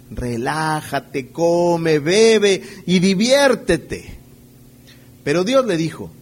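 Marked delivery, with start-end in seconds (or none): 0.1-4.2 slow, drawn-out, loud and smug; self-satisfied rich man. Acted. The rich farmer telling himself, slow and smug. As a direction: savour every word like a man at ease. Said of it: "me diré a mí mismo".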